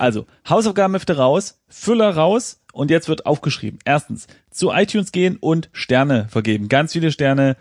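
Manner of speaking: teacher ordering notebooks out; strict teacher. Pretend. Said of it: "Also Unterrichtsstunde".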